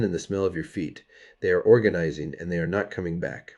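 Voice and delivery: lightly voiced weary old detective; gritty noir narration, lightly played; grumpy detective. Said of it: "in the voice of a grumpy retired detective who has seen too many laundry rooms".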